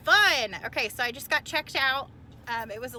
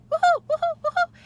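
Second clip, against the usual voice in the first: high, loud happy whoops; excited whoops; 12 dB louder than usual. Real, not acted. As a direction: cheer like you just arrived at the fair. Arriving excited at market.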